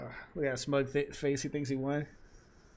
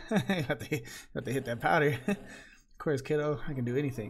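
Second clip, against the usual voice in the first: lightly voiced cocky character, a bit louder; punchy read of a brash game figure; 5 dB louder than usual. Streamer voicing a brash game character, louder.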